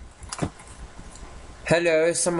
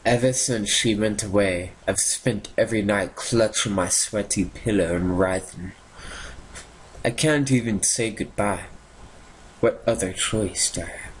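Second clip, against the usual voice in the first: dramatic reading; 4 semitones lower than usual. Acted. Streamer reading the diary note aloud, lightly hammed-up and mournful. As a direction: read the diary like a mournful soap actor. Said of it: "I deserve an Oscar for that".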